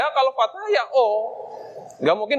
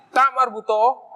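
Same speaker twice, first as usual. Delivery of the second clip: slow term demo; 3 semitones higher, slower than usual. Shown as a demonstration. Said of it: "Ditambah alif".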